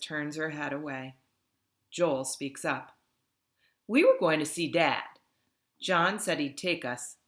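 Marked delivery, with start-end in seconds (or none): 3.9-7.2 a hint of a whiny young boy; whiny little boy. Joel explaining to Ludmilla, lightly whiny. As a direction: plead a bit like a small kid. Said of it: "in a higher, whinier voice than usual".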